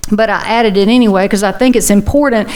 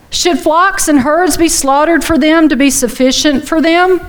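higher, pleading disbelief; exasperated Moses; 5 semitones higher than usual. Retold or imitated. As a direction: read it as Moses at his wits' end. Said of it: "but Moses said".

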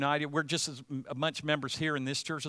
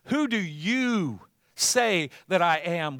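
slow, louder, solemn question in Jesus' voice; Jesus asking; 3 semitones higher, 6 dB louder, slower than usual. Retold or imitated. Jesus asks his disciples who he is, slowly and solemnly. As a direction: ask it slowly as Jesus would. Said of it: "Who do you say that he is?".

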